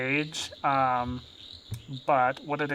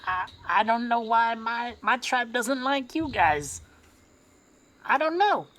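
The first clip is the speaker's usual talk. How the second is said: higher, halting character voice; slightly put-on voice, rising higher at the end; lightly voiced goblin; 5 semitones higher than usual. Goblin answering the children, halting and higher.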